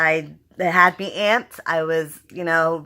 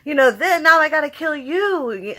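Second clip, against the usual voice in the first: higher, whiny mock Negan grumbling; complaining Negan; 7 semitones higher than usual. Fan imitating Negan griping about killing his man, higher and whiny. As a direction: grumble it like a fed-up boss. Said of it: "Negan was complaining the whole time".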